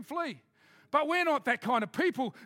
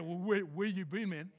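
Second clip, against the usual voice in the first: put-on African accent; 6 semitones lower, 4 dB quieter than usual. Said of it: "bit of Africa".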